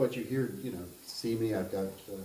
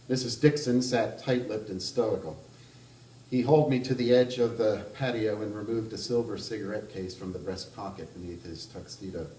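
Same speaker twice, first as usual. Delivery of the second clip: measured reading of a literary novel aloud; even, unhurried narrator voice; story narration; 3 dB louder than usual. A narrator's reading. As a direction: read it like an author at a book event.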